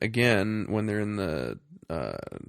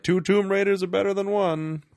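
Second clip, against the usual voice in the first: hammed-up, higher and louder movie quote; mock movie line; 9 semitones higher, 6 dB louder than usual. Mocking the film's line to his co-host, hammed-up and high. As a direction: ham up the cheesy line. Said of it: "they're like".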